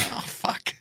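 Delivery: whispered mock "oh no" moment; whispered dismay. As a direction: whisper it as the problem sinks in. Retold realisation of a problem.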